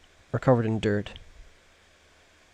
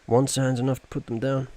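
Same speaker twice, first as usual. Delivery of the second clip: light Gollum croak; hint of Gollum, creeping and raised; 3 semitones higher than usual. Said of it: "I will not do the Gollum voice anymore".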